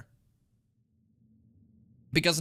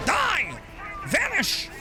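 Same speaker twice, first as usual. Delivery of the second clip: battle shout; 11 semitones higher, much slower than usual. Real, not acted. Player yelling while killing enemies, battle shout. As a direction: bark the orders with a grin.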